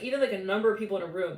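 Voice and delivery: ordinary talk, nothing marked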